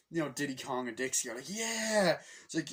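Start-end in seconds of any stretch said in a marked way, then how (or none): 1.5-2.2 high drawn-out "yeah"; mock excited fan whoop; imitated cheer. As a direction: cheer on your hero from the stands. Diddy and Dixie cheer.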